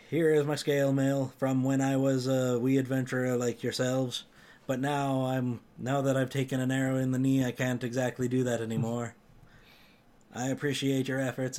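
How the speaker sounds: lightly voiced Nordic Jarl; a hint of an old Skyrim warrior. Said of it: "I tried to use the, uh, Jarl voice for the characters".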